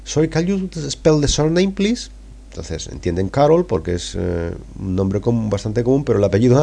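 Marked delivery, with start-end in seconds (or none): 0.0-2.1 high, slow operator voice asking to spell; switchboard operator. Pretend. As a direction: play the receptionist, slow and much higher. (recepcionista inglesa pidiendo deletrear, aguda y lenta)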